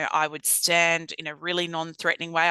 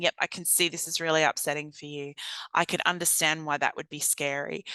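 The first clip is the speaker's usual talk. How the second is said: calm validating voice. Shown as a demonstration. Worker validating a scared person, gentle and calm. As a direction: gently acknowledge their fear. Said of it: "You're saying".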